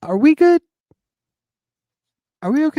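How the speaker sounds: squeaky, anxious little voice; high mock worry. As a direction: ask it in a high nervous voice. Mock worried check-in.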